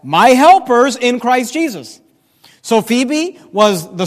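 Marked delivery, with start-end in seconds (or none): 0.0-2.0 "My helpers" loud, slow and higher; emphatic scripture reading. Shown as a demonstration. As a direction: punch out "helpers" and stretch the phrase. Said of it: "Notice what he says".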